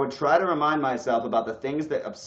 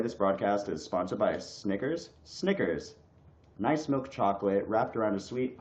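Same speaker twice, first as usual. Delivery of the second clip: mock ad read; 4 semitones lower, 3 dB quieter than usual. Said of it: "I was about to do the whole thing".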